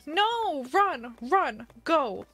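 short, panicked exclamations; panicked cries. Real, not acted. Streamer running from a jump scare, panicked cries. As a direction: cry out as if fleeing.

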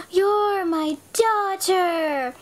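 slow, half-crying reunion; hammy tearful realization; mock tearful.

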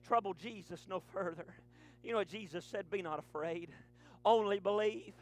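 low, soft, slowed sermon voice; hushed preaching. Acted. Preacher telling of the dead daughter to the congregation, low and hushed. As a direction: pull the church in with a hush.

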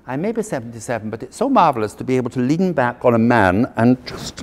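a hint of German, growing loud and dreamy; German accent. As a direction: play the old aunt purring about leaning back. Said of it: "do a German accent".

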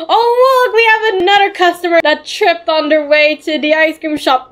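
teasing high exclamation. Real, not acted. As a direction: voice jumps up, teasing. Mocking tripped customer.

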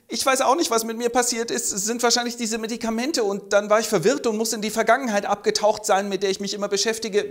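high, dazed character voice; lightly hammed-up befuddled voice; confused old man. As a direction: ramble in bewildered confusion. Voicing confused Johann.

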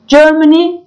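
Germany pitched high with a rising end; careful pronunciation model. Shown as a demonstration. Teacher showing learners how Germany sounds, careful pronunciation. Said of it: "Telaffuza dikkat edelim".

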